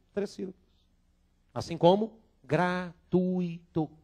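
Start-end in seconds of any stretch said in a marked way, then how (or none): 1.5-3.9 gratuito slowly, gra-tui-to; careful pronunciation. Shown as a demonstration. Teacher compares gratuito with fortuito. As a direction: draw out gratuito in three syllables. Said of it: "Uma palavra trissílaba".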